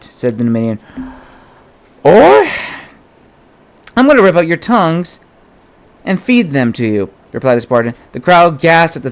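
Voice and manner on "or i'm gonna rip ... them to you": "Or" barked much higher and louder, then a steady threat; shouted threat. Acted. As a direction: threaten them to their faces. Spartan threatens the mercenaries.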